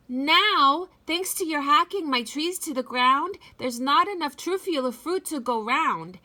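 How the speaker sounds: cross little Lorax lecturing the Onceler; snappy Lorax. Acted. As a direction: tell him off in the Lorax's voice. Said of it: "He snapped".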